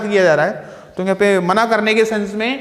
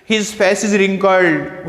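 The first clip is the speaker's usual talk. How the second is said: slow dictation; 2 semitones lower, much slower than usual. Shown as a demonstration. Teacher reads example sentence slowly.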